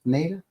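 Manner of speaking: "Nada" said as NAY-duh; long-A pronunciation. Shown as a demonstration. Citing the director's pronunciation, "Nada" as NAY-duh. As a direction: give "Nada" a long "ay" up front. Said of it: "John Carpenter himself pronounced it".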